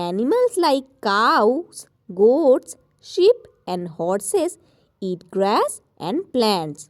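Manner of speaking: slow, careful textbook reading; slow read-aloud English. Shown as a demonstration. Teacher reading the lesson to children, slow and careful. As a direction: read each English word slowly for pupils. Reads English text slowly.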